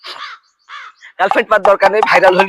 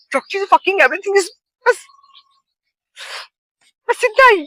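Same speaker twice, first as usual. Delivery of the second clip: mock dramatic; 14 semitones higher, slower than usual. Showing off broken English.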